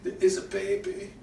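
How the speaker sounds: put-on high, urgent old refugee voice; frightened old man begging soldiers; pleading old man.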